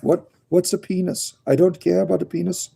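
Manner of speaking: voicing the rabbit. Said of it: "She's like".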